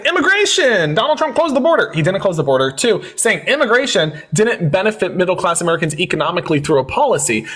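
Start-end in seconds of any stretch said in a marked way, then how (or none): 0.1-1.9 mocking shout. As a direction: mimic her shouted answer.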